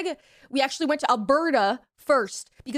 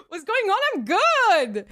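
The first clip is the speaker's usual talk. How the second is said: drugged body voice; 6 semitones higher, 4 dB louder, slower than usual. Retold or imitated. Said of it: "My body was just like".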